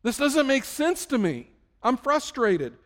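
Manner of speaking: high, loud plea to God; frustrated cry. Acted. Believer asking God where he is, frustrated cry. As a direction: demand an answer from God, drawn out at first. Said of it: "It's okay for you to say".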